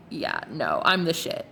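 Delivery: low, smug and unbothered; cocky self-assured. Pretend. Client brushing off doubters in a low, cocky voice. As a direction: own it like you know you're the best. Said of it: "now you're like".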